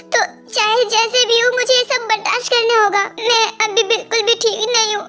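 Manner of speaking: tearful, voice breaking with sobs; hurt and holding back tears; crying. Acted. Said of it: "आज ये रो क्यों रही है". (रोते हुए टूटी आवाज़ में)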